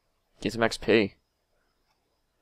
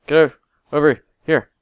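loud call; 5 semitones higher, 8 dB louder than usual. Real, not acted. Yelling at fleeing enemy.

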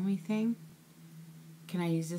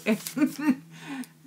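teary laugh; 9 semitones higher, 8 dB louder than usual. Real, not acted. Tearful laugh at gift.

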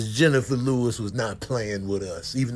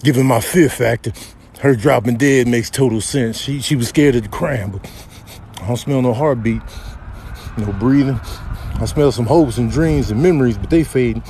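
deadpan investigator character; 9 dB louder, faster than usual. Acted. Buddy telling Chris she shows no heartbeat, deadpan. Voices a character sizing up collapse.

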